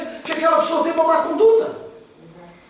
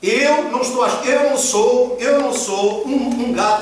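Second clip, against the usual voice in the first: speaking slowly; slower than usual. Shown as a demonstration. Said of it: "Eu prometi que ia falar devagar".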